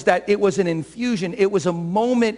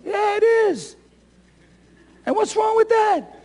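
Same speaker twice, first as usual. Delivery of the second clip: defiant shout; 13 semitones higher than usual. Real, not acted. Preacher answers critics of emotionalism, high defiant shout. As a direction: fling it back at the critic.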